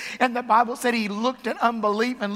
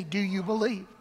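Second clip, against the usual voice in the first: soft question; 3 semitones lower, 7 dB quieter than usual. Real, not acted. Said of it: "That's the question he asked us today".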